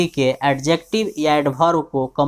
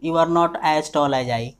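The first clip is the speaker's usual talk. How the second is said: slow dictation; much slower than usual. Shown as a demonstration. Teacher dictates example.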